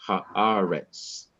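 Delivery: haaretz with a long stressed A before RETZ; stress on second-last syllable. Shown as a demonstration. Teacher showing the final word, haaretz stressed before the last syllable. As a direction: lean on the middle A of haaretz. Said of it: "on the syllable immediately before it".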